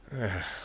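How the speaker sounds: soft, grudging groan of breath; sigh, unwilling to go along; quiet sigh of reluctance; reluctant sigh. Acted. Billy reluctant to obey.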